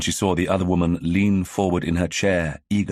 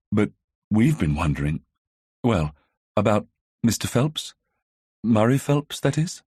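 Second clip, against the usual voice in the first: tune rising high at the end, Murray Phelps, that is?; rising question; 3 semitones higher than usual. A narrator's reading. Vicar's daughter gently suggesting a suspect to Phyllis, rising questioning tune. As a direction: let the pitch climb on "that is?" to make it a gentle question. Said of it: "her voice rising at the end to make it just enough of a question".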